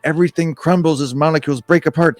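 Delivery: animated read-aloud, punching the dramatic words; story narration. A narrator's reading. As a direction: narrate a sci-fi adventure with playful drama. Reads the game story aloud.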